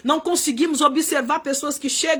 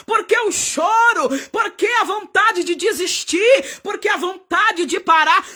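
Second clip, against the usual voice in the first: rising shouted questions to the downcast; God's rebuke. Acted. Preacher voicing God rebuking Hagar, building shouted questions. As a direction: press each why harder, building. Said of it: "Era como se o Senhor estivesse dizendo".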